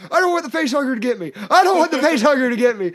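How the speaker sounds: loud, high, frantic mock wail; imitated child panic. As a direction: mimic a terrified kid crying out. Imitates daughter's night-time panic.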